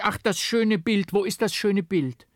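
put-on child's eager cry. A narrator's reading. Girl calls for the vanished portrait: high eager cry. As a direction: cry out longingly for the lost picture like a little girl. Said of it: "da rief ich".

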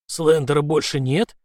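hoarse asking. Acted. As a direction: rasp the question hoarsely. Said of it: "хриплым голосом уточнил".

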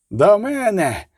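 high, strained call across the field; yelling. A narrator's reading. Kerskyi calling his men to him, yelling. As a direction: bellow for help. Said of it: "репетував Ондржик Керський".

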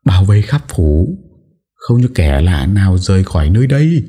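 the mistress shouting to the guards; loud shout. A narrator's reading. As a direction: bark orders across the manor. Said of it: "hét lớn".

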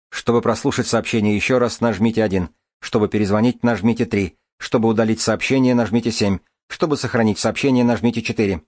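even, automated prompt delivery; phone menu voice. Acted. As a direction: read it like a recorded menu. Answering machine menu prompts.

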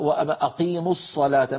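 recited "الصلاة" with lips pursed on the Sad; faulty lip-rounded Sad. Shown as a demonstration. Teacher showing a needless habit in recitation, puckered Sad. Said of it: "ما في داعي يا سيدي أن تفعل ذلك".

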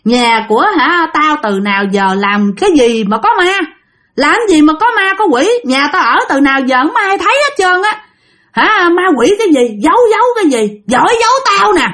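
mock angry drunk old man, pitch climbing high; a retold drunk grandpa snapping at his family, rising to high-pitched anger; drunk scolding. Drunk old man denies ghosts.

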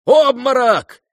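high, loud shout of alarm; alarmed cry. Acted. The guests around Ganya, crying out in alarm. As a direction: cry out that he fainted. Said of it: "закричали кругом".

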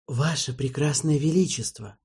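lightly fawning, ingratiating tone; butter up the king. Acted. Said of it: "сказал Марбл заискивающе".

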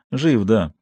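sour. Acted. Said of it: "кисло сказал он".

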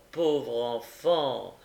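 put-on old gentleman bending over the fainted boy; tender pity, slowed. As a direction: draw out "pauvre enfant" with compassion. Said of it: "dit monsieur Brownlow en s'abaissant".

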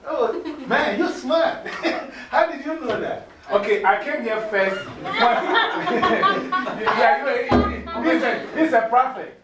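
high, loud laughing disbelief; delighted laughing teacher. Real, not acted. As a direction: laugh through the praise. Laughing at student's correct guess.

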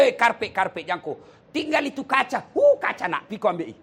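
loud, high yelling about the carpet and glass; hammed-up shout to grab the things; child's mock yell. Preacher mimicking a dead man's child yelling, mock shout. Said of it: "teriak anaknya".

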